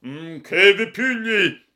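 loud, high, drawn-out groggy exclamation; startled awake. A narrator's reading. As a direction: jolt out of sleep with a cry. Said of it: "si svegliò di soprassalto, esclamando".

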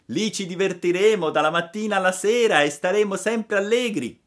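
high, loud excuse-making puppet; Pinocchio pleading. A narrator's reading. Pinocchio excuses himself to the marmot, high and pleading. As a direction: blame his friend in a rush.

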